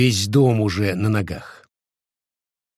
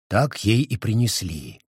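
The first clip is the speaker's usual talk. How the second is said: ordinary delivery, nothing marked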